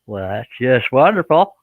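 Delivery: slow, teasing sarcasm; sarcastic. Acted. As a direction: say it sweetly but mean the opposite. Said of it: "I'm just kidding".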